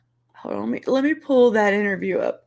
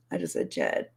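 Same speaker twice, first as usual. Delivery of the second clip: whisper; 8 dB quieter than usual. Real, not acted. Aside, unvoiced.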